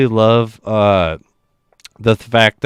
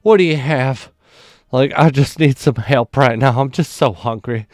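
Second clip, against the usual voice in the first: higher, hammed-up desperate customer; mock worked up; 6 semitones higher than usual. Prankster at the drive-thru acts desperately hungry, high and hammed-up. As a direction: beg for food like it's urgent. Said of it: "pretends to just be so worked up".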